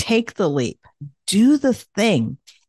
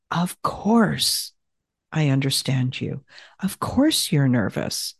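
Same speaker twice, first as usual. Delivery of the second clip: comforting and understanding; 5 semitones lower than usual. Shown as a demonstration. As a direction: hold yourself gently. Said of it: "with that tone of comforting and understanding".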